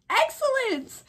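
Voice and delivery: high, swooning praise; gushing. Real, not acted. Vlogger admiring gothic book covers, high swooning gush. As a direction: swoon over the word.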